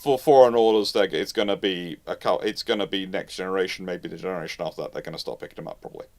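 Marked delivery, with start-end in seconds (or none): none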